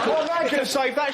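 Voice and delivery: boastful armchair fan. Acted. Comic mimicking a bloke watching the goalkeeper, boastful. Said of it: "all these sort of blokes go".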